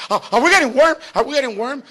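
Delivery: high, eager asking; excited kids. Retold or imitated. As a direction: ask like thrilled kids close to the prize. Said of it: "my kids start to get excited".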